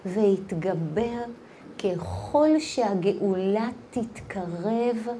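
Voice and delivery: very soft, low and slow, with pauses; hushed pondering. Real, not acted. Teacher asking women why believing in good is hard, hushed. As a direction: ask it quietly and heavily, phrase by phrase. Pained question to the women listening.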